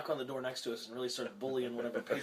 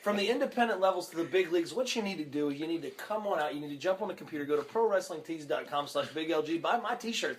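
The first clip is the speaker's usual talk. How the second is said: salesman pitch. Acted. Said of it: "He does this every fucking podcast".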